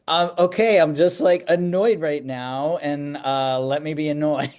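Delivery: a touch of acted irritation; mildly annoyed. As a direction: lightly insist on being left annoyed. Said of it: "this is how I get".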